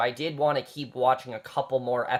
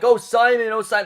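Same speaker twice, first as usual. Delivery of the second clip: overacted, higher-pitched cry over Simon; mock freak-out; 8 semitones higher, 6 dB louder than usual. Reviewer mimicking an overacting actress freaking out over Simon, higher mock freak-out. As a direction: imitate an actress overacting her panic. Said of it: "her freaking out over Simon".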